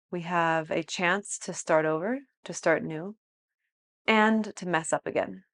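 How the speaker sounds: calm yoga teacher, unhurried with long pauses; guided meditation. Real, not acted. Teacher settling students into a space of awareness, guided meditation. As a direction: guide them gently into stillness.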